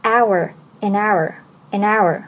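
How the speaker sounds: very slow, each link drawn out; slow linking demo. Shown as a demonstration. Teacher slowly demonstrating linking to learners. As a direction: stretch the linked words slowly for students. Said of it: "这里有两个连读".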